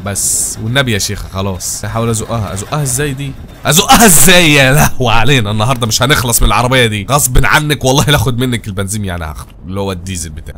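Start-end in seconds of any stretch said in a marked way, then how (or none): 3.7-9.1 frustrated outburst. Real, not acted. Frustrated with stuck trailer.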